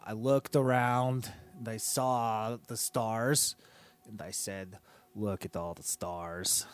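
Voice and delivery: put-on accented king character; broken-English royal voice; foreign king voice.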